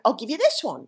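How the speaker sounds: imitated Englishman's accent; English accent. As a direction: put on a light English accent. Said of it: "in his English accent".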